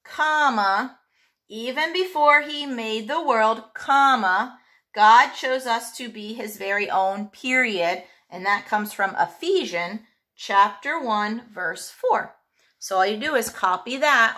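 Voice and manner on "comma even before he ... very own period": reading out with punctuation named, pausing between parts; dictation. Shown as a demonstration. Teacher dictating a scripture for the class to copy, clear and measured. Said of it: "It says".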